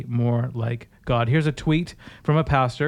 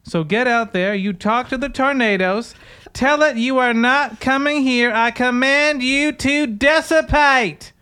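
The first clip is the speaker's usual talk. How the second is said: preacher commanding the tornadoes, hammed-up and higher; mock preacher woman; 8 semitones higher, 4 dB louder than usual. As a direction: build the mock sermon up to a grand command. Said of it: "That's how she says it".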